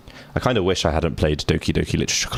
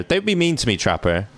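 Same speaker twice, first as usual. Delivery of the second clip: whiny plea; 5 semitones higher than usual. Pretend. Player pleads with Trapper.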